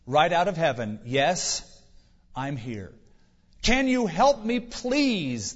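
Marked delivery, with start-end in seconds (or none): 1.1-2.9 understated calm voice from heaven; deep, calm voice. Acted. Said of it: "Deep, calm voice". 3.6-5.5 high, pleading cry of a stranded man; hammed-up desperate plea; crying for help. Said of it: "the man cried".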